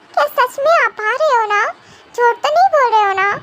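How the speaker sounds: put-on a little girl checking he's not lying; childish doubt. Cookie doubting. (बच्चे जैसी शंका)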